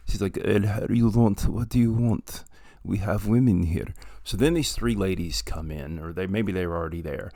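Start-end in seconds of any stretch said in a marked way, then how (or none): 0.4-3.9 a light, loud-ish mock Dracula accent; hint of a vaguely Eastern European madam, louder. Brothel madam greeting the men in a mock Dracula accent. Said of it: "She has a Dracula accent".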